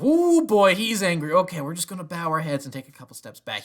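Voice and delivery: high, loud nervous mock voice; nervous inquisitors. Fan voicing Inquisitors backing away from angry Vader, high and loud. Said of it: "they immediately go".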